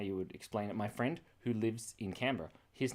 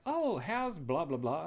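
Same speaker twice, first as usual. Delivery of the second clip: imitating Cass; 5 semitones higher, slower than usual. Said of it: "Cass is like".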